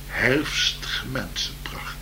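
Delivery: slow whispered final word. Acted. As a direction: breathe the last word out. Whispered closing word of poem.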